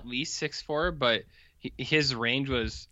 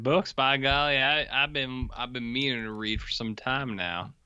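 mock folksy Lincoln. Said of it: "He said".

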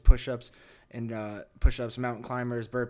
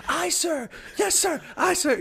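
much higher, louder yelled aye sir; sleep screaming; 4 dB louder, slower than usual. Retold or imitated. Recruit screaming in his sleep, high loud yell. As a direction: shout it like a recruit in a nightmare. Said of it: "they're yelling".

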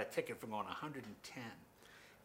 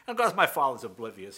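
normal talking voice

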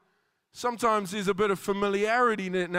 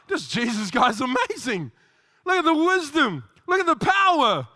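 mock amazement; 3 semitones higher, 3 dB louder than usual. Townsfolk marvelling at Jesus, excited and louder. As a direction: play the crowd marvelling at Jesus.

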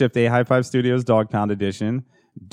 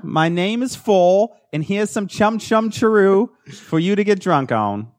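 high, slow, hammed-up Cockney chimney sweep; mock Cockney accent, badly done; 10 semitones higher than usual. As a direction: ham up a terrible Cockney accent. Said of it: "And that is a horrible accent".

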